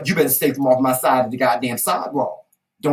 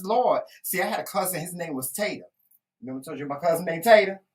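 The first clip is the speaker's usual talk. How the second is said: normal talking voice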